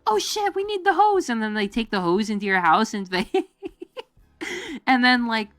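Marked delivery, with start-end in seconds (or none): 0.1-1.3 lightly voiced high alarmed fireman; mock firefighter. Firemen rushing into the house, a hint of mock alarm. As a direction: blurt it like a startled fireman. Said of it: "they run in and they're like".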